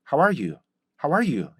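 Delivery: "How are you?" lightly, falling at the end; quick even "How are you?" as a hello; casual hello greeting. Shown as a demonstration. Teacher shows the plain hello use, light "How are you?". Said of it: "안녕하세요".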